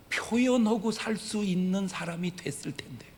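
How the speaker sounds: breathy whisper. Real, not acted. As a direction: let this slip out in a whisper. Whispered aside. (속삭이듯)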